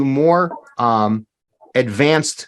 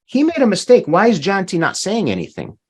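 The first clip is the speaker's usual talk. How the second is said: objecting listener; 5 semitones higher than usual. Acted. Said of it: "if somebody's listening and say".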